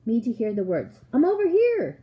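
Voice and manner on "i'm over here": loud, high call from afar; raised, far-carrying shout. A narrator's reading. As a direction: holler so the searcher can find you. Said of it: "the voice called out".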